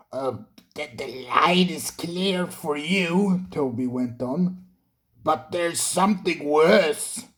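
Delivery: a hesitant, whispered start; hushed and uneasy; nervous Toby. A narrator's reading. Toby breaking bad news to Thomas, nervous.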